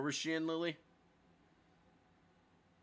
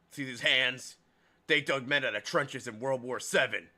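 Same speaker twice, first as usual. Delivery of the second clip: lightly voiced ex-soldier waitress; gruff waitress who served in the war. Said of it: "the voice I'm giving her".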